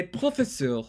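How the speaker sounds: "professeur" with French r and final vowel; French pronunciation. Shown as a demonstration. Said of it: "in French".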